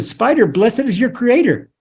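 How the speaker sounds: mildly exalted quoted praise; praising. Retold or imitated. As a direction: retell a grateful blessing. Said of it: "he praised the spider".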